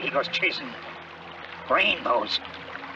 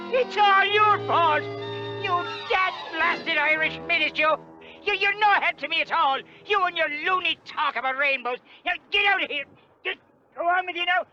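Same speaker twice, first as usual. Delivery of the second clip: angry shouting; 3 semitones higher than usual. Acted. Ben throws the Irishman out.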